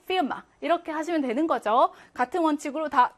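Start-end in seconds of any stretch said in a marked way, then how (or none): 0.1-0.4 피르마 with a short quick first vowel; higher-pitched, short 피 in 피르마. Shown as a demonstration. Teacher showing the short vowel rule, short i in 피르마. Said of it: "짧게".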